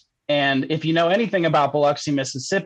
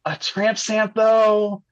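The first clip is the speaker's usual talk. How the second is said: drawn-out, higher-pitched doubtful question; retold hesitant balking; 6 semitones higher, much slower than usual. Teller replays balking at his friend's tattoo dare, hesitant and drawn-out. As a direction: balk slowly, stretching the words out high.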